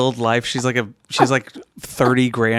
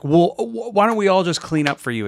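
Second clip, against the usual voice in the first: mock snide guy; 7 semitones higher than usual. Mocking gym guy.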